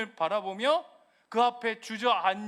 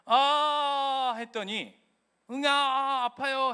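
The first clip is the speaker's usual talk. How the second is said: mock groan; 3 semitones higher, 3 dB louder, much slower than usual. Voicing a groaning sufferer.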